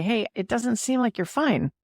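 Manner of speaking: compassionate ask. Shown as a demonstration. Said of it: "with authenticity and compassion".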